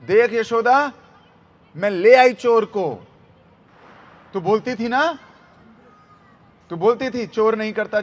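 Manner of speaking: loud, triumphant accusation; आरोप लगाती गोपी. Retold or imitated. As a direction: act out proudly presenting a caught thief. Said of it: "Yashoda के सामने खड़ी होकर बोलती है". (ज़ोरदार, विजयी शिकायत)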